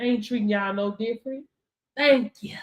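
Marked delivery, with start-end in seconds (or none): 2.0-2.6 whispered thanks. Real, not acted. Thanking the few viewers on the stream in a whisper. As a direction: breathe the thanks out without voice.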